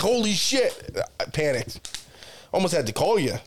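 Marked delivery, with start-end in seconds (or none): 0.0-1.0 mock panic. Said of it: "And I was like".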